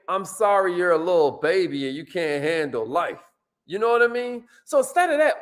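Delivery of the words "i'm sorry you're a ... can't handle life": mocking. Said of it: "I'm almost saying".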